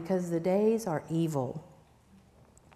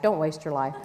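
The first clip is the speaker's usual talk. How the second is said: laughing through "don't waste your life"; laughing correction; 8 semitones lower, 3 dB quieter than usual. Shown as a demonstration. Speaker fixing a misquoted book title, laughing. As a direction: let a laugh break in on "don't". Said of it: "he said".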